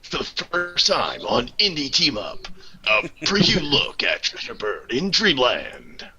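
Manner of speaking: slow, dramatic trailer announcer; movie trailer voice. Acted. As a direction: hype it like a film trailer. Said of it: "My movie trailer voice".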